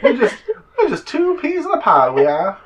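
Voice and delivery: very high giggly rat squeak; giddy tiny rat. Acted. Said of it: "This is my rat voice".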